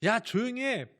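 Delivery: high-pitched imitated crowd yell; shouting to hush. Crowd hushes the crying beggar, acted shouting. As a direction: call out sharply to silence someone. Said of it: "막 소리 지르고".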